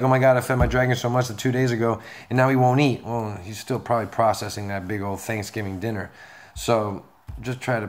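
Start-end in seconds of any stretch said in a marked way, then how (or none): 0.0-3.0 quick, louder imitation of a fretting owner; mildly panicked pet owner, imitated in a rush; mock freak-out. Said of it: "You're, like, freaking out".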